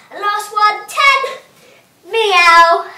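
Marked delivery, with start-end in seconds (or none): 2.1-2.9 a big cat meow. Shown as a demonstration. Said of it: "cat sit-ups".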